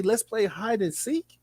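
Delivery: slow, soft mocking sing-song; mock-innocent slow invite; mocking quote. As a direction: mimic a creepy invitation, drawn out. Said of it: "Who the fuck says".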